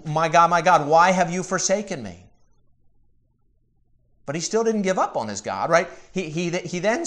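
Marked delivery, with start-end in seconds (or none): 0.0-2.2 mildly raised, imploring cry; retold cry. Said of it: "he cried out to his God".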